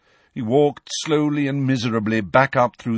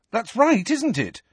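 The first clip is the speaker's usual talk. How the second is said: higher, insistent question; urging; 13 semitones higher than usual. Acted. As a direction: press him to agree. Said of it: "Harry urged him".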